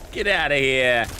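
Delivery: put-on tough-guy Brooklyn accent; quick Brooklyn accent. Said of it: "That's my Brooklyn accent".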